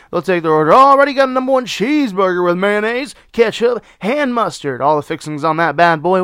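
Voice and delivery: high, loud chirpy service voice; drive-thru order voice. Shown as a demonstration. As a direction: greet the customer like a drive-thru worker. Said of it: "This is how I take orders at Sonic".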